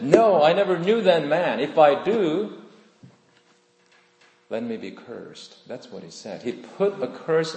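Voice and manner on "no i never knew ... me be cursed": higher, louder frantic denial; Peter's denial. Retold or imitated. Peter denying Jesus to the crowd, loud and desperate. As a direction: deny it fiercely, voice raised. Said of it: "Peter said".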